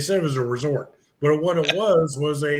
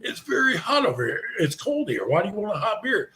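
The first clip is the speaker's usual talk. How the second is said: high-pitched, lilting Nigerian accent impression; imitated Nigerian accent; 6 semitones higher than usual. Camp host questioning an American about hot beer, imitated Nigerian accent. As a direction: mimic a puzzled Nigerian host's accent. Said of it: "they had that accent over there".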